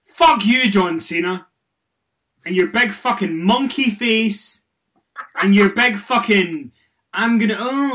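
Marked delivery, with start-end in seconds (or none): 0.0-5.7 shouting curses at a wrestler; angry outburst. Acted. Podcaster yelling insults at John Cena, angry shout. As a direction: yell it with real venom.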